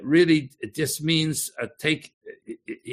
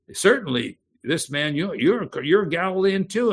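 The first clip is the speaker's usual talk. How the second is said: accusing; 5 semitones higher than usual. Acted. Bystander accusing Peter.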